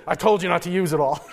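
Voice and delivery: fast, giggling retelling; can't keep a straight face quoting him; gruff line broken by laughter; laughing through the quote. Retold or imitated. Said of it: "he said".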